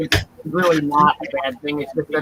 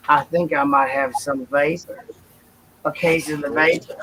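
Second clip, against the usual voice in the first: put-on Southern Belle accent. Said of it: "So that was my Southern Belle".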